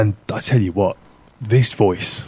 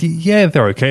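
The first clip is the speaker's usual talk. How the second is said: lukewarm; 5 semitones higher than usual. Retold or imitated. Own lukewarm reply, retold.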